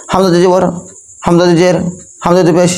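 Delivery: হামজা দুই জবর, জের, পেশ each rattled off quickly; wrongly hurried reading. Shown as a demonstration. Teacher demonstrating the wrong way, হামজা দুই phrases hurried. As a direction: rush each হামজা দুই phrase, words squashed together. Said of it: "এরকম আসবে। তাহলে এভাবে পড়া যাবে না".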